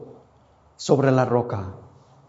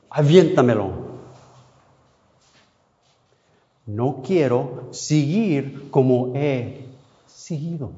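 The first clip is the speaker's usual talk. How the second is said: retold prayer; 3 semitones higher than usual. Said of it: "comencé a orar".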